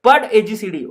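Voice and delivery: put-on Rajasthani-accented teacher telling off; light Rajasthani madam voice; mock Rajasthani scold. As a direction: scold in a playful Rajasthani lilt. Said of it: "madam कहती है".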